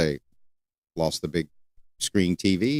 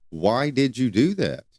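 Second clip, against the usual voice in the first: slow, deliberate question; invitation tone; 2 semitones higher than usual. Shown as a demonstration. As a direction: ask it slowly as an invitation to explain. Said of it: "use the invitation time".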